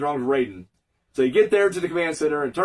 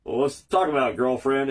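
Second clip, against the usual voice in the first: put-on lower, deadpan "girlfriend" in a stiff straight voice; straight white voice; 5 semitones lower than usual. Raiden answering Jax, stiff and plain-voiced. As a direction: say "girlfriend" as flat and proper as possible. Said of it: "the straightest, whitest voice ever".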